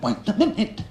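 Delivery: insistent interruption. Retold or imitated. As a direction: mimic her insisting, lifting the voice on "minute". Woman's interruption repeated more emphatically.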